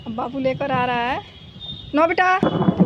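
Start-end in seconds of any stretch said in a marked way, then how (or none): 1.9-2.8 pet talk. Real, not acted. Scolding dog gently.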